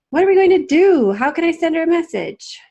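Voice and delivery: high, loud panicked pleading; distressed. Acted. Beanie asking Mom what to do without the moon, distressed. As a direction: worry spilling over.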